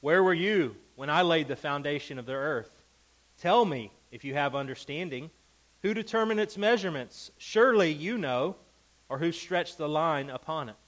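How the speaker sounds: God taunting Job with questions; sarcastic God. Retold or imitated. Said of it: "catch the sarcasm here".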